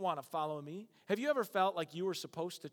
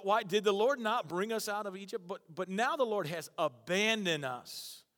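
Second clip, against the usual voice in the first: sarcastic; 4 semitones higher, 5 dB louder than usual. Retold or imitated. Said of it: "I see Gideon being very sarcastic".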